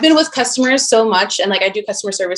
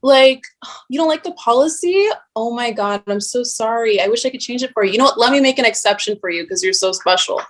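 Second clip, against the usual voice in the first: fake apologetic. Bank teller mock-sweetly apologizing to a rude customer. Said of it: "I have to be like".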